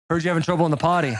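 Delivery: low, quick, cheerless delivery; joyless Santa. Retold or imitated. Will as Santa asking a child about potty trouble, low and joyless. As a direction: imitate a Santa with no happiness in the voice. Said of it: "No happiness in his voice".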